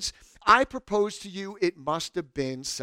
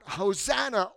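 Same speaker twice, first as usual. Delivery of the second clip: a restrained, raised-pitch acclamation; crying out; 4 semitones higher than usual. Acted. Crowd waving palm branches, mildly crying out. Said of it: "cried out".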